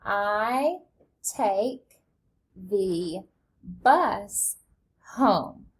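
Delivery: reading along slowly, word by word; choral read-along. Shown as a demonstration. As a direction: read it together with the children, steady and even. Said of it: "Read that with me".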